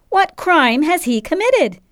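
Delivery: slow, high-pitched challenge; called out. A narrator's reading. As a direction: call the question out to a crowd. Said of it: "called Pilate".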